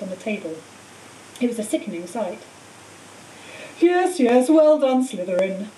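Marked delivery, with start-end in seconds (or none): 3.8-5.7 louder, lightly voiced old headmaster; headmaster acknowledging cheers. Dumbledore acknowledging Slytherin's cheers, dutiful congratulation. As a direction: call over applause, then settle down.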